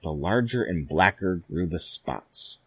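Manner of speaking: plain reading voice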